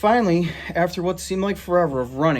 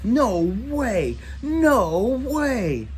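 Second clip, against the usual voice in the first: rising, high cries of disbelief; shocked disbelief; 10 semitones higher, much slower than usual. Acted. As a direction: squeal it out, getting higher. Boys shocked at the face.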